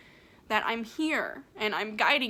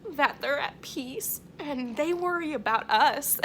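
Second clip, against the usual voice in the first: emotional laugh breaking into the words; teary laughter, higher pitched; laughing through tears; 4 semitones higher, 5 dB louder than usual. Real, not acted. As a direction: laugh as the feeling spills over. Tearful laugh while describing spirits.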